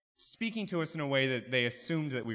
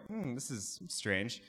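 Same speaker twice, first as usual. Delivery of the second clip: puzzled murmur; 8 dB quieter, slower than usual. Retold or imitated. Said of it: "And I go".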